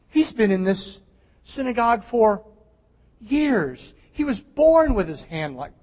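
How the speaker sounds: delighted rejoicing. Pretend. Preacher voicing shepherds who rejoice, delighted. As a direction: pretend to be thrilled at the healing.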